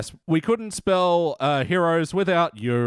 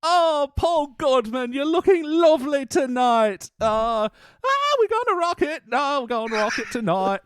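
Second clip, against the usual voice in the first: high British rock frontman voice; impression of a rock singer; 10 semitones higher than usual. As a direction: croon it high to the crowd. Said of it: "What about a rock singer?".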